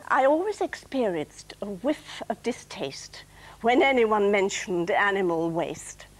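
lightly recited comic verse; gentle poem reading; poem recitation. Acted. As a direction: read it like a little rhyme for the audience. Recites her gardening poem.

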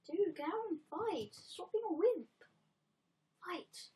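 loud, high exasperated yelling; frustrated yell. Real, not acted. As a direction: yell at the coward to fight. Yelling at golem.

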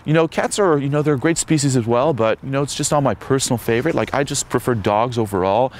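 hammed-up awkward backpedal; hedging guy. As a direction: imitate a guy dodging disagreement. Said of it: "And say the guy hates cats".

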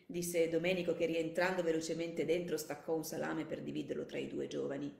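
measured audiobook narration; composed narrator, phrase by phrase; story narration. A narrator's reading. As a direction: read the story aloud with care.

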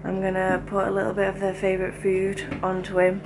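quiet, hushed commentary; prank whisper. Real, not acted. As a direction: whisper so the sleeper won't hear. Prank setup while he sleeps.

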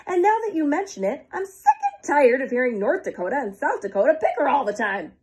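high, fed-up excitement; excited. Acted. Nebraska ranting to Kansas about the Dakotas, high and eager. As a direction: gush about the squabbling Dakotas. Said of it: "Nebraska said excitedly".

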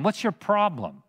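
scoffing repeated question; mocking taunt. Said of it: "they are mockingly saying".

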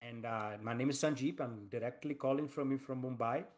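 put-on Indian accent as a call-centre agent. Shown as a demonstration. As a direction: play a caller from Mumbai in an Indian accent. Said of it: "how can I do the Indian accent".

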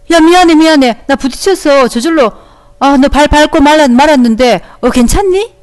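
flustered apology. Acted. Teacher as boy who stepped on girl's foot, flustered and apologetic. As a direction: play a child apologizing urgently.

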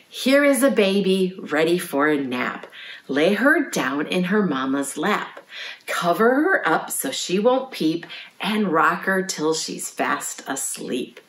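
measured rhyme, softening at the end; nursery rhyme recitation. Shown as a demonstration. Librarian teaches children a nap time rhyme, reciting. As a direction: chant it gently, slowing into sleep.

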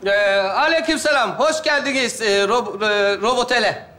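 mock Aegean robot drawl; as a robot waiter with an Aegean accent. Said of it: "Ege şivesiyle konuşuyor ya bu".

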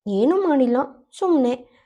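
"ಸುಮ್ನೆ" mimicked back in a light teasing tone with a falling end; a playful taunt, "ಸುಮ್ನೆ" tossed back mockingly; teasing mock. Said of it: "ಅಣುಕಿಸಿದವಳು ನಗುತ್ತಾ".

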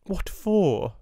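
put-on girl coldly defying headmistress; defiant question. A narrator's reading. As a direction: throw the question back. Sarah's defiant reply.

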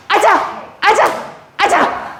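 three high cheers. Shown as a demonstration. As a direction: cheer like a coach. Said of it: "아자 세 번 해볼게요".

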